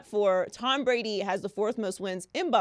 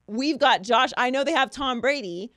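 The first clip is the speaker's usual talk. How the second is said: louder mock-confident lineman's boast; 4 semitones higher, 4 dB louder than usual. Host quoting a lineman's ridiculous claim, mock boasting. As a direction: imitate a player proudly convinced, pushed out. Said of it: "he said something ridiculous".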